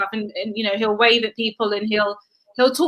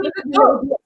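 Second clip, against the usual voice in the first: put-on higher, excited little boy pointing; child voice; 8 semitones higher, faster than usual. Mother imitating her son spotting ducks, higher and excited. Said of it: "he's like".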